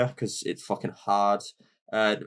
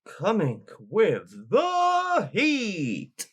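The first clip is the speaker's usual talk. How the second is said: hype shout; 8 semitones higher, much slower than usual. Real, not acted. Hyping the track.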